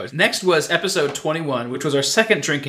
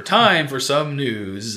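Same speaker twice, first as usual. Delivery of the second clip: drawn-out radio host intro; slow announcer voice; much slower than usual. Retold or imitated. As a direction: stretch each word like a show host.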